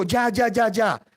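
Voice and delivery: mildly excited cry; excited outburst. Acted. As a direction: burst out as a father suddenly revived. Jacob revives on seeing the carts.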